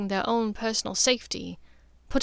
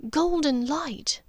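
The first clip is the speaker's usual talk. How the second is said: lightly raised, hushed woman telling of a fading light; a mother confiding something uncanny, half-whispered; Narcissa's voice; 6 semitones higher than usual. Acted. Narcissa speaks in story.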